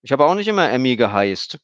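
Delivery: put-on high little girl's voice saying geheißt; child chattering with a grammar slip. A narrator's reading. Emmy tells Stefan about her name, high girl's voice. Emmy's voice, mispronouncing.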